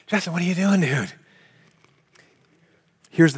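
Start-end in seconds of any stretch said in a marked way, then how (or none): 0.1-1.1 incredulous onlooker. Retold or imitated. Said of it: "You'd be like".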